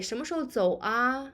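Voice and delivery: relaxed, quick 什么时候走啊 with gentle 啊; softened. Shown as a demonstration. Teacher demos softened question about leaving, gentle. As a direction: ask it easy and friendly. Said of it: "to soften the tone".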